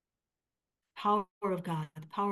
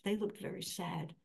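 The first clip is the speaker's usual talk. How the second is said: quiet mom quote; 7 dB quieter than usual. Retold or imitated. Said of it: "she goes".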